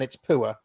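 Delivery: 'poor' said as 'poo-uh'; 'poor' in two syllables, the Welsh way; two-vowel 'poor'. Shown as a demonstration. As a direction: give poor two separate vowels. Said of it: "two vowels in poor".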